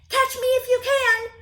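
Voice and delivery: high, loud sing-song taunt; taunting shout. Acted. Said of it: "the gingerbread baby shouting".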